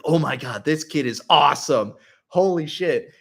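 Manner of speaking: rising excitement, climbing in pitch and level; impressed raving. Retold or imitated. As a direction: imitate an amazed streamer. Streamer raving about the kid.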